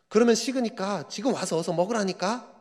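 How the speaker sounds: mother quarrelling. Acted. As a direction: act out a mother pressing her son to come. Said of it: "이러면서 싸움이 시작이 됩니다". (다그치는 엄마 연기)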